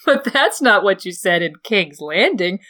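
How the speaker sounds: high, loud, tearful and pleading, slowing at times; a heartbroken woman unravelling; hysterical jealous aunt. Acted. Lysa to Littlefinger about his kiss, high tearful pleading. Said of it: "She sobbed hysterically".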